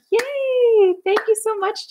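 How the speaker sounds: high, drawn-out cheer into thanks; delighted, high-pitched gratitude; excited thanks. Real, not acted. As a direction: cheer happily for the donor. Thanking viewer for a donation.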